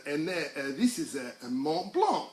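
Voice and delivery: put-on light French accent on the ambassador's words. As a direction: imitate a French host presenting a sight. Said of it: "was a French ambassador".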